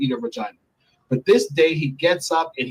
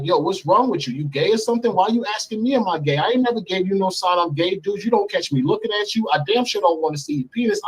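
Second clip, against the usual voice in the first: higher, heated rant; replayed indignant tirade; retold going off; 6 semitones higher than usual. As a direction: lay into him, pitch up. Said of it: "So I'm going in on him like".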